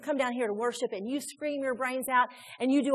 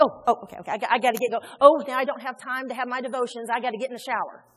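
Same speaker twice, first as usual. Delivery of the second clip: louder, hurried mock panic, a laugh in it; flustered rush; 6 dB louder, faster than usual. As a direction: catch yourself running late. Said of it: "And you're like".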